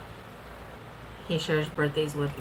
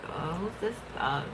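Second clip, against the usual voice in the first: breathy whispered aside, half to herself; 7 dB quieter than usual. Retold or imitated. Wife recalls seeing his shirtless photo, whispering. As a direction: whisper it like a secret appraisal.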